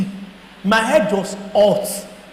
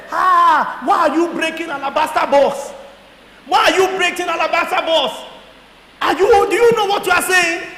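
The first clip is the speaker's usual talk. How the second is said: raised, scolding voice; retold shout; 5 semitones higher than usual. Pastor shouting at Paul about the alabaster box, raised and scolding. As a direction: scold him for giving it all away. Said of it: "Pastor shouted".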